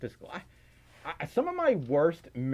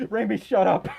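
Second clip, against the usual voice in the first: loud, higher playful shut-up; raised, amused scolding; laughing retort; 5 semitones higher, 7 dB louder than usual. Real, not acted. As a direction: tell off a teasing friend between laughs. Laughing retort to teasing chatter.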